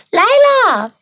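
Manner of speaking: drawn-out answering call; yelling back. A narrator's reading. Girl answers mom's supper call, long called-out reply. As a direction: call back to mom, stretching the words. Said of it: "我回喊道".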